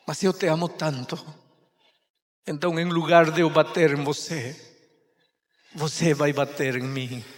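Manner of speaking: mother's gentle promise; tender love. Acted. Mother tells son her love.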